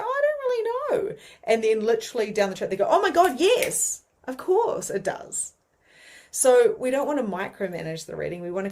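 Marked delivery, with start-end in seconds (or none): 0.0-1.2 high-pitched doubtful imitation; put-on uncertain voice, pitched way up; unsure client. Client doubting the medium's description, imitated hesitancy. 2.9-5.5 high mock excitement, slowing at the end; imitated sudden recognition. Client realizing the reading fits, imitated excited recognition.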